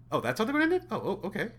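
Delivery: a let-down viewer going oh, okay; baffled disbelief. Retold or imitated. Reviewer mocking the film's ending, baffled and deflated. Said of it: "It was more like".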